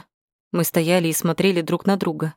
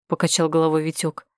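plain reading voice

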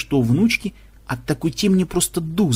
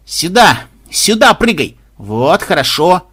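calling out; 5 dB louder, slower than usual. Acted. Gamers shouting at screen.

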